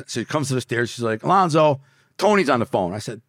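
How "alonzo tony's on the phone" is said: calling downstairs. Retold or imitated. Grandma calls down the stairs.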